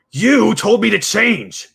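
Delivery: high, loud, slow protest; indignant cry. Acted. Rose protesting to her mother, high loud indignant cry. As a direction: throw the blame back, loud. Rose snaps back at Ruth.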